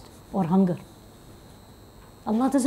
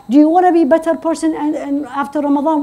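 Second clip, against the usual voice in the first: mock rhetorical question; 7 semitones higher, 5 dB louder than usual. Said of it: "If I say now".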